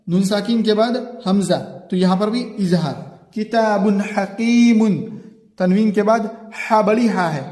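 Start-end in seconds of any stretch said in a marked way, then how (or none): 3.3-5.0 slow, clear tanween before हा; slow clear reading of किताबुन हकीमुन; izhar recitation. Shown as a demonstration. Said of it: "इजहार होगा".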